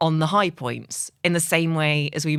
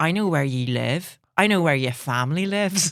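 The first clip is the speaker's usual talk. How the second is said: menacing, threatening Northern Irish accent. Asked about accents, the speaker demonstrates the only phrases they can say: Northern Irish accent. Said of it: "I can do a Northern Irish accent".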